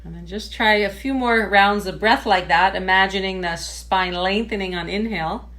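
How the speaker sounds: measured meditation-teacher voice with pauses; guided meditation. Real, not acted. Yoga teacher settling a class into sitting tall, guided meditation. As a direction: guide them gently through posture, phrase by phrase.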